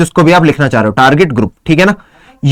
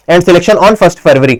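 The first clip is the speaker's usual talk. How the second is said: slow dictation; much slower than usual. Shown as a demonstration. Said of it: "selection कब है भैया?".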